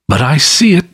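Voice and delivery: high, eerie ghost voice; unearthly voice. A narrator's reading. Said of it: "the spectre's voice disturbed the very marrow".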